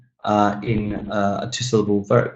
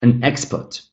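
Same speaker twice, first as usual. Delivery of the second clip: "export" as a noun, first syllable stressed. Shown as a demonstration. Teacher models the noun for students, first-syllable stress in "export". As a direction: hit the EX in "export". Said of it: "we've got that pattern followed".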